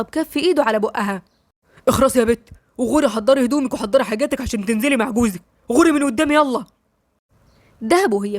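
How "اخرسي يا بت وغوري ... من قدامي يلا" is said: mild harsh order. Acted. Grandfather silencing girl harshly.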